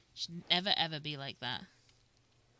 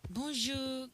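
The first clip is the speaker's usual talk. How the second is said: put-on bonjour lifted higher in a French accent; 6 semitones higher than usual. Second try at Seraphine, higher French bonjour. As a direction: find Seraphine's pitch on the retake. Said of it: "Can I still do Seraphine's voice?".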